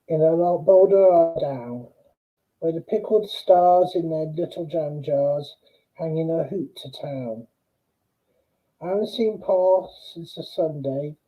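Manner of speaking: measured verse reading with pauses after lines; poem recitation. Acted. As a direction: recite the poem line by line, letting each phrase fall at its end. Reads a poem aloud.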